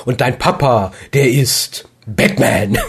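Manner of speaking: slow, drawn-out big reveal; milk the punchline slowly; dramatic punchline. Retold or imitated. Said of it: "Da machst du nicht".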